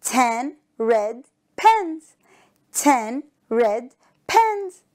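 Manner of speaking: slow, word by word, for repeating; slow choral model. Shown as a demonstration. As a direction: lead the class slowly. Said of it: "Say it with me".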